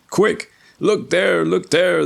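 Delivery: high, loud excited shouting; joyful cry. Acted. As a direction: shout it out in glee. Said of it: "he cried in his joy".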